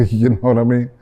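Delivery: brief chuckle into the words; amused little laugh, then talk on. Real, not acted. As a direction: say it through a light, real laugh. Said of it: "I'm laughing because".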